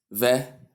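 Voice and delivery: "vegetable" broken into VE, JEE, TAY, BUL; each of four wrong beats in "vegetable" said apart; wrong four syllables. Shown as a demonstration. Teacher shows what to avoid, split four-syllable mispronunciation. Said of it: "Instead of".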